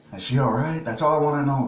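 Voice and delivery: pressing his dad for an answer; desperate pleading. Retold or imitated. Son on the phone begging his crying dad, desperate.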